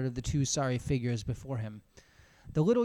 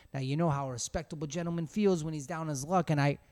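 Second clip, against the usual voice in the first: coaxing beggar. Acted. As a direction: coax the men for two cents. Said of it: "coaxing key of an affectionate puppy".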